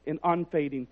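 quiet, falling "and unfading"; soft reading. Shown as a demonstration. Pastor first reads the verse, soft and low. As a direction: say "and unfading" softly, letting it fall. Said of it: "I want to read that again".

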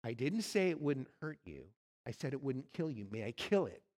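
low, steady angel voice; calm angel. Acted. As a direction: ask it gravely, unhurried, as a towering angel. Angel answers the ghost.

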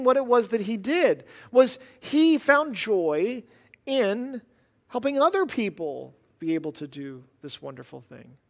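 ordinary delivery

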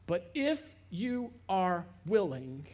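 drawn-out, halting plea; slow hesitant plea. Acted. The leper pleading slowly with Jesus. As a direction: ask it slowly, unsure he'll be heard.

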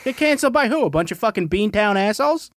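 Boston cartoon dad voice, loud and high; Peter Griffin. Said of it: "Peter, is that you?".

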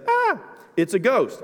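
high, slow fearful "Ah, it's a ghost"; terrified cry. Acted. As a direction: cry out like you've seen a ghost. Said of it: "I added the "ah".

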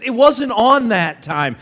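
high, loud, slow retort; loud protest. Retold or imitated. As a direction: imitate a teen yelling back in defence. Son arguing back, retold.

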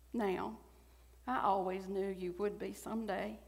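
put-on reading her words in a mild Southern accent; a touch of a Southern accent, fond and earnest. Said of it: "I've slipped into a little bit stronger Southern accent while reading".

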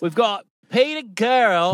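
attempted New York accent. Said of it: "I can't do a New York accent".

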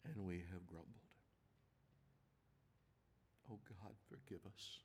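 unhurried, earnest public prayer; prayer of confession. Real, not acted. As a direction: confess to God haltingly, phrase by phrase.

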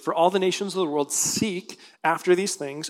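"seek" picked out with clear emphasis; stress on seek. Real, not acted. Preacher reading scripture to congregation, stressing "seek". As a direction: lean on the word "seek", drawing it out. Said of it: "I put emphasis on that word seek".

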